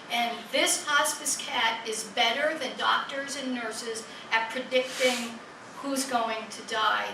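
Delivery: usual speaking voice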